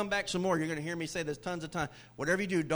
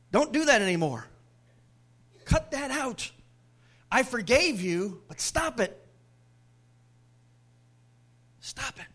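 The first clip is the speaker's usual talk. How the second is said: stern Jesus, mock; 6 semitones higher, 6 dB louder than usual. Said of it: "It's like he's saying".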